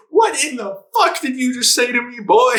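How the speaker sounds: high, hammed-up outraged yell; mock mad. Viewer voicing the mad player confronting his teammate, mock-angry. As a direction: imitate an offended player, building to a loud "boy". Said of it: "And he's mad. He's like".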